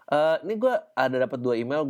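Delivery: ordinary talk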